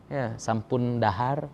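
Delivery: slow, humble krama, sampun dahar drawn out; polite Javanese. Shown as a demonstration. Teacher shows how to address elders, slow polite Javanese. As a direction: speak up to an elder, softly respectful. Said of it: "Kalau dengan orang tua nggak bisa".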